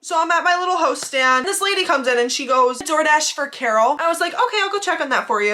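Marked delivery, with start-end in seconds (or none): 2.8-4.0 slow, mildly entitled customer quote; a bit of attitude. Retold or imitated. Customer announcing her pickup to the hostess, slight attitude. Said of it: "she had a little bit of attitude". 4.3-5.5 higher, polite service voice; being nice. Retold or imitated. Hostess answering a customer at the stand, being nice. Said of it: "being nice because".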